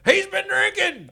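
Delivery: high, slow, loud mock call-out; loud mock accusation. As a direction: cry it out like an accusing bystander. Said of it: "I can hear it now".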